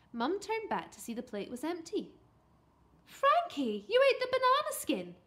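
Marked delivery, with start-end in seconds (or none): 3.1-5.2 high, loud exclamation; shocked mum's high voice; astonished. A narrator's reading. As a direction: gasp it out in amazement. Mum amazed at empty plate.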